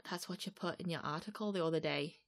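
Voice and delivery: soft attempt at a Manc accent. Shown as a demonstration. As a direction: try the line in a Manc accent. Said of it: "like, a Manc accent".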